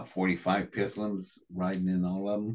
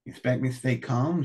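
heated retold outburst; 5 semitones higher than usual. Retelling his angry outburst.

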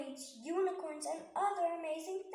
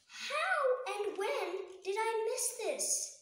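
amazed question; 6 semitones higher, 3 dB louder, slower than usual. A narrator's reading. Narration turns to awed question.

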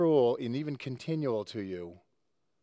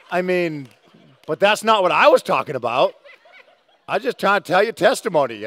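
talking through real laughter, louder; real laughter breaking into the words; laughing; 4 semitones higher, 6 dB louder than usual. Real, not acted. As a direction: laugh while explaining yourself. Preacher laughing at own story.

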